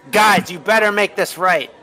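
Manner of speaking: a boss fumbling his words while telling them off; flustered scolding. Acted. Camel turning on the guys, flustered and high-pitched. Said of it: "You got me so flustered".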